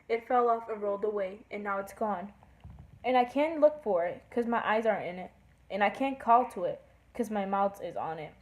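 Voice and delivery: lightly singsong poem reading; poem recital. Acted. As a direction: read the rhyme aloud with a steady beat. Reads a poem aloud.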